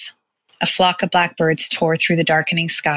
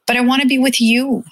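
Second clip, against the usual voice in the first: put-on higher, louder protest of a boy; child's exclamation; 7 semitones higher, 4 dB louder than usual. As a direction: cry out not wanting to part. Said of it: "he exclaimed".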